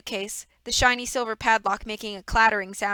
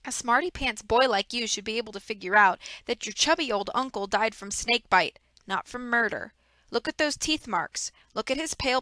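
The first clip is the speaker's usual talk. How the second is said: a hint of a smug, fake-sorry villain; lightly voiced villain. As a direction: play the false grief of a schemer. Reader voices villain Stefano.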